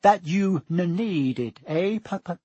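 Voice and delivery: stuttering, jittery; nervous stammer. Acted. Quirrell teasing Harry, nervous stammer. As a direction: laugh it off, shakily. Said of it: "He laughed nervously".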